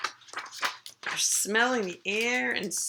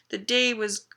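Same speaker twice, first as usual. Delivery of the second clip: wistful, higher and slower at the end; a little sad; 5 semitones higher than usual. Acted. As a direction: draw out the ending with mild regret. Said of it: "he looks a little sad".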